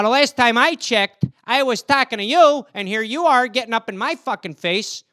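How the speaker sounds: Midwestern American squaring up for a fight; middle-America accent. Shown as a demonstration. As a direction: play a confrontational middle-America tough guy. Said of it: "you go middle of the country".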